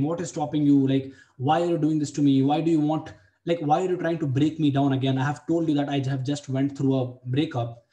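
heated reproach, pushing harder as it goes; furious complaint to a girl who keeps cancelling; pissed-off rant. Retold or imitated. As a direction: vent at her like you've had enough. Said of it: "I again got pissed off and I'm like".

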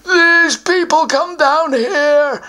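a troll sulking over his treasure; grumbling troll. Acted. Troll complains about intruders, grumbling.

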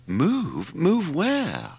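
rising high in confusion on where; baffled, can't follow the idea; bewildered. A narrator's reading. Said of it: "asked Mother, bewildered".

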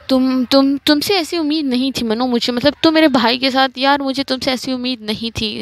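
half-hearted mock anger. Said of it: "गुस्से भरी आवाज़ से कहती है".

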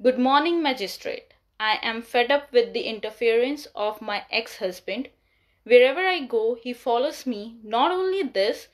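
measured exam response, not rushed, with lifted openings; calm, unhurried delivery. Shown as a demonstration. Exam taker answers the magistrate calmly and unhurriedly. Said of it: "मैं बहुत ज़्यादा तेज़ नहीं बोल रही".

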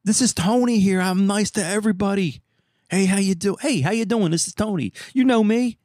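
high, strained incredulous voice; exasperated disbelief. Retold or imitated. Tony insisting he's known here, high and incredulous. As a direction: pitch it up in disbelief. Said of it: "I'm like".

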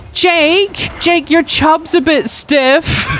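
mum calling from another room; called out from the living room. Retold or imitated. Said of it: "I hear her call out".

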